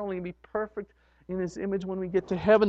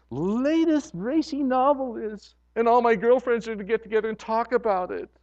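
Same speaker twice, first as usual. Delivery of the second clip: lightly voiced excited gossip, getting louder; a hint of a chatty girlfriend; gossipy churchgoer; 3 dB louder than usual. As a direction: gush about the book club. Gossipy woman voiced about racy novel.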